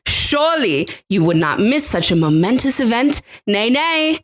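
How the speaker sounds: grand British period-drama narrator; British accent. Acted. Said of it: "I kind of lost the accent".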